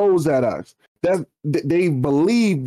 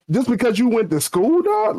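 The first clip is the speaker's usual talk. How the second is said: 1 incredulous; 5 semitones higher than usual. Real, not acted. Outraged retelling of coffee snub.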